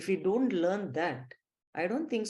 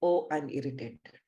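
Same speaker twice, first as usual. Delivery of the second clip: mock irritated whisper, lower; whispered complaint; 5 semitones lower than usual. Teacher mimics a student's daily grumble, whispered. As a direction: breathe the gripe out like a sulky student. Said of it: "How many people utter".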